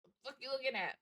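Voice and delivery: mock tough-guy glare out loud; mock snarl. Player shows how she snaps at starers, mock-tough snarl. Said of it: "I just".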